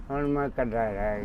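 low, quick, tearful admission. Real, not acted. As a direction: close to crying, pitch dropping. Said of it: "ਰੋਣਾ ਨਹੀਂ ਬਾਪੂ". (ਰੋਣਹਾਕੀ ਆਵਾਜ਼)

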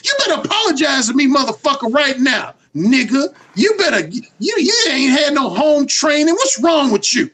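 mock scolding demand for an apology; going off on him. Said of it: "Erotic hypocrite's gonna go off on you".

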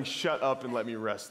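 smiling version. Retold or imitated. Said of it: "It wasn't the smiling".

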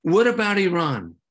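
loud challenging what about Iran, stress on What; deflecting question. Retold or imitated. Representatives dodging disarmament, loud challenging question. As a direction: toss it back as a gotcha. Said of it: "they were like".

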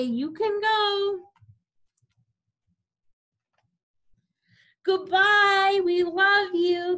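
high, sung goodbye; sending him off. Acted. Family singing goodbye as the dog leaves for camp.

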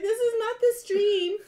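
mock scolding. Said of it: "I was like".

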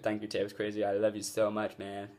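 put-on American accent, British speaker. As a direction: thank a friend in an American accent. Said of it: "my awesome American accent there".

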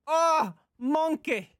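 high, drawn-out exclamation; startled cry. Real, not acted. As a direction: blurt it out high in surprise. Startled by a toy monkey.

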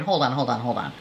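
trailing hush. Real, not acted. Calming herself over price.

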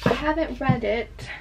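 put-on slight unintended British accent. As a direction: slip into a light British accent without meaning to. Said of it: "Sorry, I keep doing a British accent".

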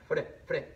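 Fre, fre with a single tapped r; soft r demo. Shown as a demonstration. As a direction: tap the r lightly in Fre. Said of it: "aquí está suave".

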